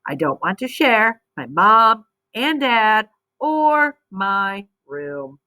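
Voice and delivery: lively storybook reading voice; expressive read-aloud for young readers; reading to children. Acted. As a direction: read it like a picture book to kids.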